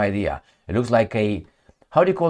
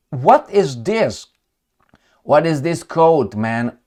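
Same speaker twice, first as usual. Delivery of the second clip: exasperated; 4 semitones higher, slower than usual. Real, not acted. Mocking a leader's coat in a photo.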